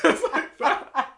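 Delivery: slow, high sing-song Irish rhythm; laughing Irish rhythm demo; mock Irish lilt. Shown as a demonstration. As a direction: hum the up and down Irish tune. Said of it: "It's like a up and down".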